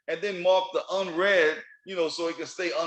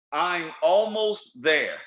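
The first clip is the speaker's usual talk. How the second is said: slow deliberate phrase; 3 dB louder, much slower than usual. Shown as a demonstration. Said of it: "Let me say that again".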